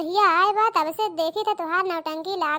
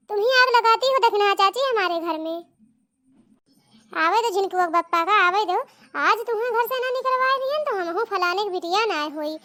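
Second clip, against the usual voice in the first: louder furious threats; angry shouting; 2 semitones higher, 5 dB louder than usual. Acted. Bride yells at aunt, louder and furious. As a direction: yell threats to throw her out.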